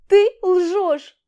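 громкий высокий крик; выкрикнуть обвинение; гневный крик. A narrator's reading. Истеричное обвинение. (Аля кричит на Олега)

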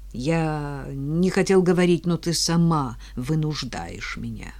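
slow, faltering, fading to whisper; broken voice. Acted. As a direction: confess it brokenly. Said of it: "надломленный голос Марека".

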